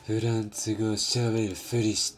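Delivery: rough, snarling anime tough guy; Levi impression. Scolding someone for faking French, gruff anime tough-guy voice. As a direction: bark it like a cranky anime captain. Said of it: "that was more Levi than Bakugo".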